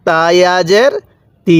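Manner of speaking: spelling chant ending on stretched "তি"; drawn-out vowel. Shown as a demonstration. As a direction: hold the ee in তি long. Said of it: "এরকমভাবে শিখতে হবে".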